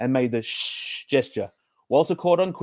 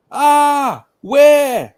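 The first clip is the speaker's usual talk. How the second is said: much higher, loud panicked squeal; startled lion; 14 semitones higher, 10 dB louder than usual. Acted. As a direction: jump in fright, voice shooting up.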